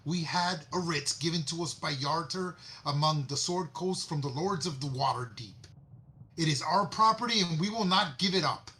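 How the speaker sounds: indignant dwarf. Acted. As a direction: plant your feet and refuse to give it up. Dwarf defends his property claim.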